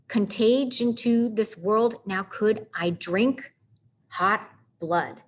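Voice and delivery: slow metrical beat, then "hot blood" as two separate heavy words; double stress. Shown as a demonstration. Teacher pointing out the broken pattern, heavy double stress on "hot blood". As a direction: land "hot" and "blood" equally, pause before them. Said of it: "Two extra syllables on that line, and it stands out".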